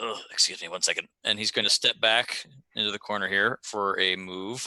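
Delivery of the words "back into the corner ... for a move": normal talking voice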